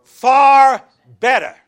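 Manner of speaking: slow, loud shout of the answer; emphatic shout. Real, not acted. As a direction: draw out each word at full volume. Preacher answers his own question.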